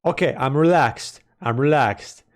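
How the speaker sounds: hiccuping while talking; trying to talk through hiccups. Real, not acted. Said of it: "I can't speak".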